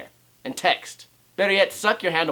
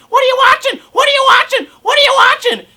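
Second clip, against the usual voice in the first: high loud mock yell; shrill mocking shout, much higher and louder; 11 dB louder than usual. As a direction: bang on the wall yelling like a pest. Mock invading their home.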